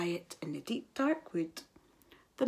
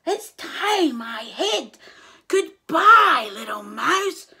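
high, louder panicked goodbye; frightened snake; 6 semitones higher, 9 dB louder, slower than usual. A narrator's reading. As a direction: scramble away shrieking.

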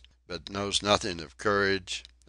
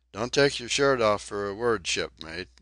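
menacing yet friendly call; fiery and friendly; 2 semitones higher, 4 dB louder than usual. Acted. Belfast calling out to Donkin, fiery but friendly. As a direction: warn him off with a grin in the voice. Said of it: "called out Belfast ... fiery, menacing, and friendly".

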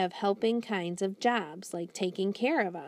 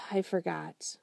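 whispered, ashamed admission; whispering. Acted. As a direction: breathe it out without voice. Ashamed boy admits forgetting.

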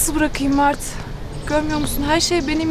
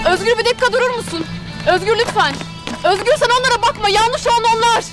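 pleading call; 6 semitones higher than usual. Acted. Chasing him, pleading.

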